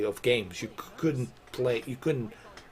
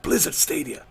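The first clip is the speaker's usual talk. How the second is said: hyped announce; 5 semitones higher than usual. Pretend. Hyping imagined announcement.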